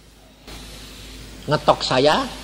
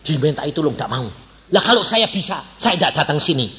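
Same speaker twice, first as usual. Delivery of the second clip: mild mock grumble; 4 dB louder than usual. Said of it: "Dua-dua ngomel".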